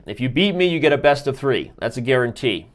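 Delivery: slick pitch to the viewers, pumped up; car salesman. Pretend. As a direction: sell it like a used car dealer. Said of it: "I sound like a car salesman".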